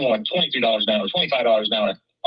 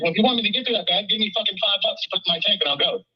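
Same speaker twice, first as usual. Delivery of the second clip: fast, higher heated comeback, fired off; retold angry retort; 6 semitones higher, faster than usual. Husband retelling what he snapped at his wife, fast and heated. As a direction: rattle it off like a sore husband recalling the fight.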